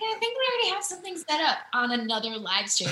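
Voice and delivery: high, loud retold blurt; mock excited retelling. Singer retells her awkward message to host, mock excited.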